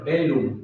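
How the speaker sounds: bellum with an L sound, never Y; lengthened double L. Shown as a demonstration. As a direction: say bellum as "bel-lum". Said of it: "Se alarga".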